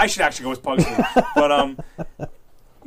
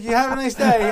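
sweetly fake-polite, higher and louder; mock polite; 8 semitones higher, 8 dB louder than usual. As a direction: kill her with fake kindness, laughing. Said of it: "I was like".

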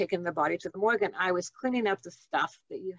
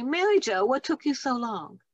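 higher-pitched voicing of waiting children; imitated children's greeting; 5 semitones higher than usual. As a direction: call out as the children welcoming her. Children greeting her in the afterlife.

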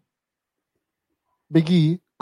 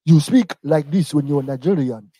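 slow, lightly put-on Nigerian accent; fake Nigerian accent; slower than usual. Co-host mocking how the wrestler learned it, fake Nigerian accent. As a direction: imitate a badly learned Nigerian accent, slowly. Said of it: "with a fake accent".

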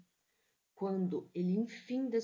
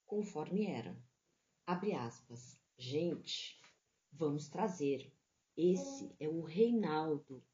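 literary reading. A narrator's reading. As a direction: read it like a mournful novel passage. Literary reading of Grande Sertão.

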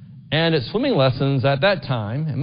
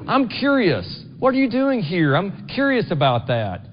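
light, higher curious question; curious asking; 4 semitones higher than usual. Shown as a demonstration. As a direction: ask it with honest interest, lifted up. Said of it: "We might use that as curiosity".

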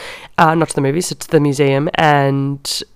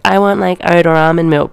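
mock fussy customer; 2 semitones higher, 4 dB louder than usual. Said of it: "that bitch that's like".

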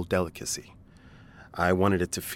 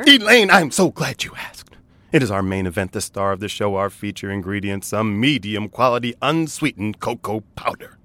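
carnival barker voice; 4 dB louder than usual. Pretend. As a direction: hype it like a barker. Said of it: "carnival barker voice".

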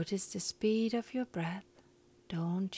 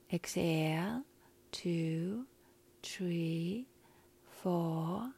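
slow breath counting; much slower than usual. Shown as a demonstration. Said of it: "So I will count to a four".

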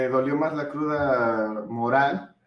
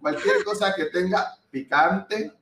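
slow reworded version; 4 semitones higher, slower than usual. Real, not acted. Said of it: "Reformula lo que estás comentando".

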